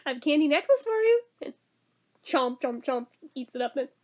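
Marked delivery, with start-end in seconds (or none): 0.0-1.2 higher and fast, sweet-talking bribe; lightly voiced wheedling kid; bribing little girl. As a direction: rush out the bribe like an eager kid. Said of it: "She's like".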